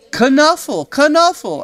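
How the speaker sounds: put-on high, loud child cries; insistent cries. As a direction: insist it's yours. Trixie claiming her bunny.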